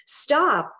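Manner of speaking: snapping after losing patience, lightly acted; retold outburst. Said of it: "all of a sudden just lose it and say".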